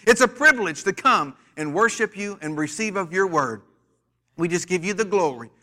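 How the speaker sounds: fervent preacher's prayer, words slowed and stretched. Acted. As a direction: pray over the church, drawing out the phrases. Opening prayer over the church.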